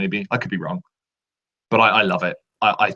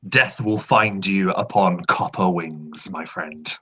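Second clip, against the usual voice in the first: ominous villain voice; 4 semitones lower, slower than usual. Pretend. Ominous line from the game.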